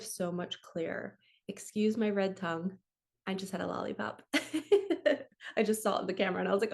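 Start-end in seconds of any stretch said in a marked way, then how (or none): 4.3-6.7 边笑边说; amused, rushed words through a laugh. Real, not acted. Amused by her red tongue.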